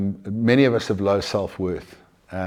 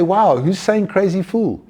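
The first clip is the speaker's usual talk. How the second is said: acted amazed realization; 8 semitones higher than usual. Acted noticing of inner voice.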